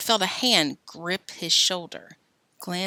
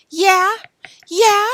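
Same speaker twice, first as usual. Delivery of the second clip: loud yeah yeah; 13 semitones higher, 10 dB louder than usual. Acted. Alan brushing off Joe.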